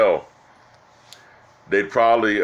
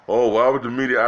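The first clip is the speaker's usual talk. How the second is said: slightly higher, louder mock-naive "why would the media"; mock naive question; 4 semitones higher, 3 dB louder than usual. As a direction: imitate a gullible friend, a bit up and louder. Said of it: "They think".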